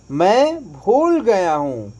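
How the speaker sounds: normal talking voice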